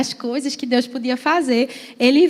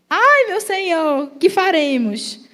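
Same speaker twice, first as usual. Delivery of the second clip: put-on higher, slow, drawn-out frightened boy; boy's voice attempt; 4 semitones higher, slower than usual. Preacher tries a boy's voice for the frightened servant. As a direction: stretch it out like a scared young servant. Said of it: "Eu vou fazer uma voz mais, mais, mais menino".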